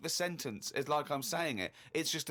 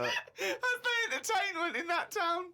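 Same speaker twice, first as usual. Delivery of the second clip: high, slow, laughing words; 13 semitones higher, slower than usual. Real, not acted. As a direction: still helpless with laughter. Still laughing at diary.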